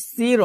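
সির with a light s; wrong thin sin. Shown as a demonstration. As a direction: keep the s of সির plain. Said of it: "সির হবে না".

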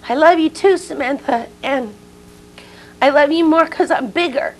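high, loud mother's call across a distance; calling back. Retold or imitated. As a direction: shout love back to your child. Mother calling back to child on porch.

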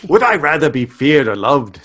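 shaky attempt at Australian, veering English; lightly Australian Cupid voice. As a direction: try an Australian-accented Cupid. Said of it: "how about you do it Australian".

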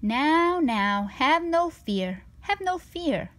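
a sly cat brushing off all worry; cheerful cat. Acted. The cat reassures in a voice.

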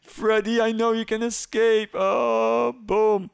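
high, loud encouragement; excited cheering. Real, not acted. Player cheering his friend Freddy to escape, high loud excitement.

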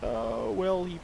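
lightly put-on voice of a puzzled caller; imagined caller. Streamer imagining the game company deciding to ring back, mock caller voice. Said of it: "they're probably just like".

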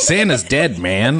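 bratty cartoon kid voice; Bart Simpson. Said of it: "like a little Bart Simpson line".

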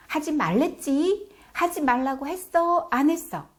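loud, high nagging mom; nagging scold. Shown as a demonstration. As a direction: scold like an exasperated mother. Parent scolding example.

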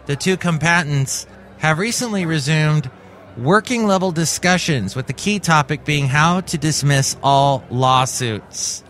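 measured newscaster delivery with lifted phrase openings; news read. Acted. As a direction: read it out like a tech news bulletin.

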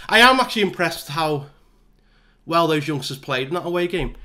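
breathless after running upstairs; talking while catching breath. Real, not acted. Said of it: "I'm out of breath".

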